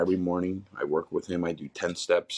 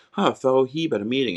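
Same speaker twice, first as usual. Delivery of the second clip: higher, playful mock greeting; lightly voiced friend ribbing him with a raised tone; teasing old friend; 7 semitones higher, faster than usual. Friend greeting him at a meeting, higher teasing voice. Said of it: "first words out of his mouth".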